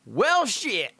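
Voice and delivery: high, let-down well shit; mock deflated detective. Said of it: "they just go".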